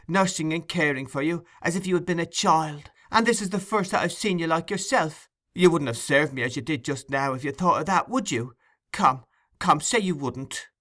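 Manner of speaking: sweet tone. A narrator's reading. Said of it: "sweetness of tone even to her voice".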